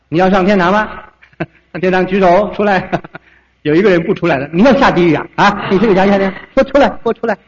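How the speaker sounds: bully the crowd forward, half-joking; mock threatening preacher. Mocking 1930s preachers' altar call. (夸张模仿威胁的传道人)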